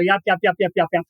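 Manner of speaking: lightly imitated nonstop chatter, clipped and repetitive; mocking yapping. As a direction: mimic two nurses yapping away, half-mocking. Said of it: "they were yapping".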